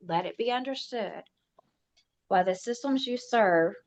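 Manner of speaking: solemn, deliberate official declaration; formal proclamation. Acted. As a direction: read it like a legal decree.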